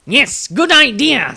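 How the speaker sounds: a lightly voiced halfling, slow and high; eager halfling. Halfling agreeing with Maestro, lightly voiced and eager. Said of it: "said the halfling".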